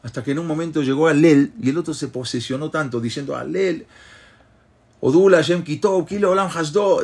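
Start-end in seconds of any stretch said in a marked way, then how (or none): 3.4-7.0 ecstatic cry of Hallel, raised; fervent shout. Retold or imitated. Prisoner swept up in prayer, crying Hallel aloud. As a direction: call out the prayer with rising fervor. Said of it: "empezaba a gritar".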